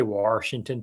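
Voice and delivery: "Washington" said "Warshington", R in the first syllable. Shown as a demonstration. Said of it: "too with an R".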